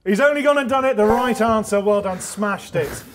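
loud, high, triumphant host; excited winner announcement. Acted. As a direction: announce the big win, stretching out the prize. Host announces the jackpot win.

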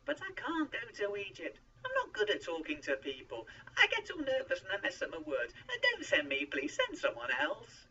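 high, loud, desperate pleading; panicky pleading. A narrator's reading. Moses begs God to send someone else, pleading. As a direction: build to a loud, high plea.

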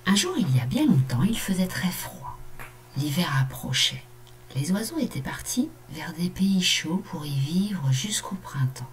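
storytelling read to a class; story reading. A narrator's reading. Teacher reading a story to her pupils, gentle narration. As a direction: read the tale gently for children.

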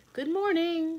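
high, loud call out the window. Acted. Hen calling out the window to her neighbours, loud. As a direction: sing out a greeting to the neighbours. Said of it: "she called".

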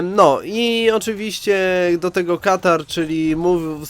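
congested nasal voice from a cold; talking through a stuffed nose; blocked nose. Real, not acted. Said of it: "słyszycie, jakbym mówił przez nos".

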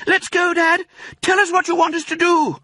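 put-on high, loud excited child voice; a little fox cub begging to help; eager fox cub. A narrator's reading. Fox cub to father, high eager voice.

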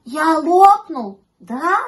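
slow, rising anxious question; anxious little pup; frightened puppy. A narrator's reading. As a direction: start hushed, build to a high worried plea. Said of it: "щенок ужасно испугался".

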